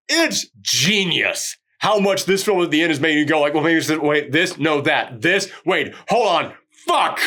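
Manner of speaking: exasperated, mock-bewildered raving; frustrated-sounding admiration. Real, not acted. Reviewer confused by the film's twists, exasperated but admiring. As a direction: praise it like it is driving you mad. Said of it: "I know it sounds like I'm frustrated".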